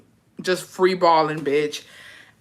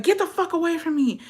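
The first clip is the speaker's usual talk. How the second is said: higher, recoiling yell-ish plea; high-pitched disgusted get away; 10 semitones higher than usual. Retold or imitated. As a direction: push him off in disgust. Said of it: "I'm like".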